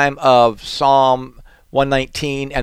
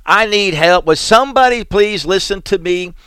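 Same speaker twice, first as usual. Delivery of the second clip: mild mock scream; 5 semitones higher than usual. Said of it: "you just kinda wanna scream".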